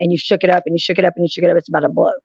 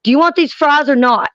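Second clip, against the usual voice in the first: mock offer of fries; 7 semitones higher than usual. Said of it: "all of a sudden I hear".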